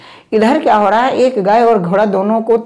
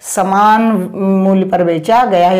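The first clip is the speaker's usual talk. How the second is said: slow, drawn-out emphasis, barely raised; mock insistent cry; slower than usual. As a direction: spell it out as the question's mild mock shout. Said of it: "सवाल चिल्ला चिल्ला के कह रहा है". (हल्के बनावटी ज़ोर से, धीरे-धीरे खींचकर)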